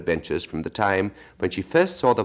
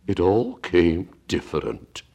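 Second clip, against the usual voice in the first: thoughtful; slower than usual. Acted. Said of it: "repeated thoughtfully".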